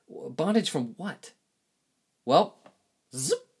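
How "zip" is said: quick vocal zip for rewinding; "zip" said like a zipper sound effect; zipping sound. Shown as a demonstration. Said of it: "that's my, uh, sound effect for reverse".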